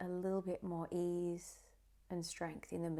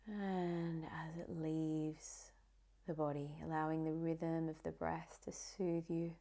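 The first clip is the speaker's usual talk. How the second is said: guided meditation. Acted. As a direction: ease the listener into calm, one phrase at a time.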